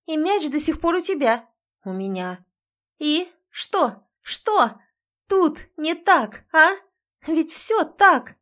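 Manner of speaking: high, loud and slow, shouting; tearful furious yell. A narrator's reading. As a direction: yell across the room. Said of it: "Я уже ору на весь туалет".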